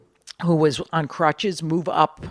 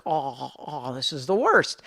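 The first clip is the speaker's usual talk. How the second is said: mock groaning; 3 semitones lower, 6 dB quieter, slower than usual. Moaning about stomach ache.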